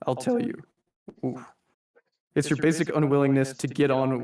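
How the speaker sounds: lightly voiced V, a suave mock-polite boss; a hint of theatrical villain addressing his employee; understated V as a genteel manager; reading V's monologue. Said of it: "like V says in the comic".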